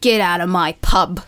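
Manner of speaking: loud, slow London accent. Shown as a demonstration. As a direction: copy a Londoner, loud and drawn out. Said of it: "the classic for London would be".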